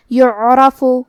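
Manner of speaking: يُعْرَفُ with damma, sukun on ain, fatha on ra; clear vowels. Shown as a demonstration. Teacher showing students the word, careful. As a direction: say يُعْرَفُ with every vowel sounded. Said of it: "تو ہم یہ تینوں حرکات کو ظاہر کریں گے".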